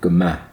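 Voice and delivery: "Guma" ending in an open "a" as in "cat"; different final vowel. Shown as a demonstration. Learner showing the Gaelic version, "Guma" ending like "cat". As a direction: stress the last syllable of "Guma", vowel as in "cat". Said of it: "the pronunciation is a little different".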